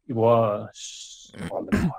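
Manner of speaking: slow, whispered reveal; hushed dramatic reveal. Acted. Reading the villain's reveal aloud to a friend, hushed and dramatic. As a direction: draw it out in a whisper.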